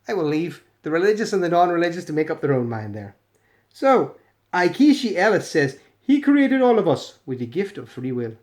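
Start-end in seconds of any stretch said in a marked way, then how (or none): 6.0-8.4 put-on South African accent. Reading a believer's comment aloud, in a South African accent. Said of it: "That was my South African accent".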